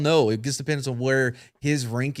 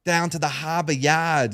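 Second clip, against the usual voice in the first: put-on Boston accent; 4 semitones higher, slower than usual. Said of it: "try to do a Boston accent".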